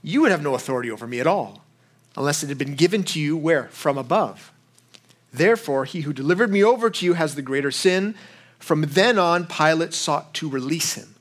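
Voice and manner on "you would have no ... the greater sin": calm. Retold or imitated. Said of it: "answered probably pretty calmly".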